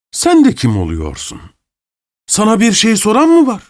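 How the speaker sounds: contemptuous masked man. A narrator's reading. Masked man rounds on steward.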